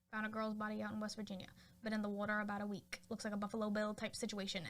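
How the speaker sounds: brisk, lightly voiced Boston-cop cadence; a hint of fast-talking movie cop; old movie cop. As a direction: rattle it off like an old film detective. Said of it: "like, Boston cop movie".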